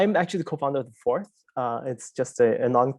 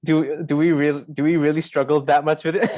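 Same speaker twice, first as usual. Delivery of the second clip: louder, breaking into a laugh; amused teasing; 3 semitones higher, 5 dB louder than usual. Real, not acted. Presenter teasing a hesitant audience about the question, amused. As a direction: tease them, laughing as you finish.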